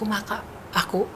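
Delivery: slow, soft whisper letting go; whispered surrender. Retold or imitated. Mother modelling a prayer for her daughter, slow whisper. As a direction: breathe out the acceptance slowly.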